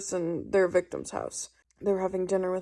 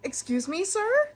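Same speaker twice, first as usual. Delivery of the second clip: mock outrage; 11 semitones higher than usual. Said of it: "Rowan was like".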